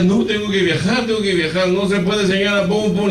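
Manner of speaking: high, hurried desperate protest; retold desperate pleading. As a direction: imitate a frantic traveller pleading. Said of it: "Desesperada ella".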